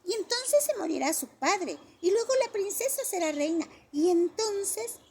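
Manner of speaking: high, loud, slowing to a triumphant finish; triumphant shout. A narrator's reading. Johnny announces he will be king, triumphant child shout. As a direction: crow it like a winner. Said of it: "gritó triunfalmente".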